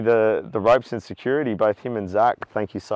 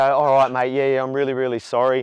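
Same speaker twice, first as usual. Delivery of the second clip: apologetic calm; 3 semitones higher, 3 dB louder than usual. Shown as a demonstration. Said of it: "try and calm down like that".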